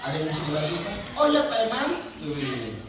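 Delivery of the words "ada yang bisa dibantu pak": polite tone demo. Shown as a demonstration. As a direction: offer help politely, lifting at the end. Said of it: "Ada nada dan intonasi sesuai dengan S O P".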